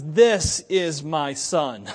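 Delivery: very slow, weighty declaration; God's voice proclaiming. Retold or imitated. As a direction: lay each word down like God speaking from heaven. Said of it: "and God says".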